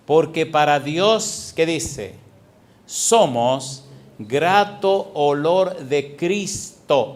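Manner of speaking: drawn-out scripture, each word weighted; slow and heavy, let the verse land; slow emphatic preaching. Acted. Preacher reading the verse to the congregation, slow and weighty.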